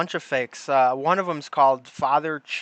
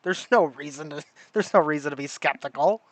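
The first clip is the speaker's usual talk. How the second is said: sarcastic; 4 semitones higher, 4 dB louder than usual. Pretend. Sarcastic mock trust.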